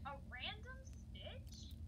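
slow, high teasing echo of the words; mocking question. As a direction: parrot her back, slow and high. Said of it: "Oh my gosh, Dawn".

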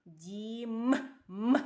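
Дім with М held and pushed out, then М alone; stress on final М. Shown as a demonstration. Teacher isolates the last sound, emphasised М in Дім. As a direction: hit the closing М of Дім, then repeat just М. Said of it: "І останній звук вимовте".

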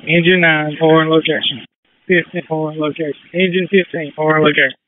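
crackly two-way radio; crisp callouts over the radio; fire radio. Real, not acted. Fireground radio traffic.

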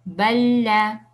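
balla con la l doble sostenida; letras unidas. Shown as a demonstration. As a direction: alarga y refuerza la l de balla. (balla de corrido, con l larga)

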